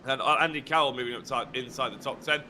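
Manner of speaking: breathless, gasping between phrases; talking while winded and panting; out of breath. Real, not acted. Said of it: "if I sound like I'm out of breath".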